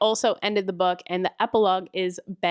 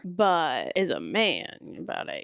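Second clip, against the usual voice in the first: a hint of a deeper, slow manly voice; lightly manly voice; 3 semitones lower, slower than usual. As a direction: say it low and slow like a tough guy. Describing a manly hero.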